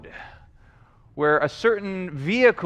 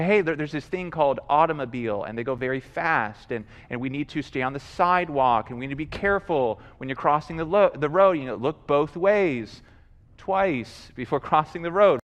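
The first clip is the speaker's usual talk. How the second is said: calm parental instruction; 6 semitones lower, 4 dB quieter than usual. Acted. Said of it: "you begin to instruct them".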